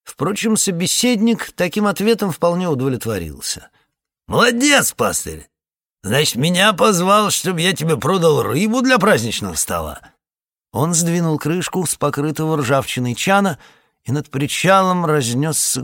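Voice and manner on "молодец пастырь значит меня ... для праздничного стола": lightly voiced crafty ferryman, high and mocking; a hint of a cheeky boatman jeering at the pastor; sly ferryman. Ferryman teasing the pastor about fish, mocking.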